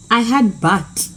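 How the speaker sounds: but whispered like the word bag; hushed but, as locals heard the vowel. Retold or imitated. Speaker recalls locals hearing but, hushed. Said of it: "We said bag".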